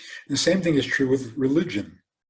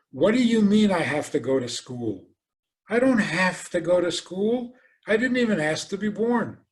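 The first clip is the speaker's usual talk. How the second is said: put-on whiny defiant child; 5 semitones higher than usual. Voicing a child who refuses school.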